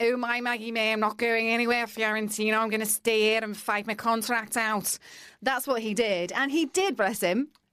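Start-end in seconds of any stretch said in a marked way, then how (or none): 0.0-5.0 put-on Scouse accent. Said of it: "Liverpudlian accents".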